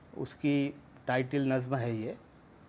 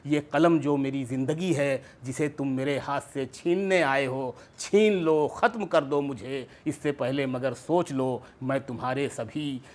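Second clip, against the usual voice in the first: poetry recitation; 4 dB louder than usual. Acted. Recites his poem at mushaira.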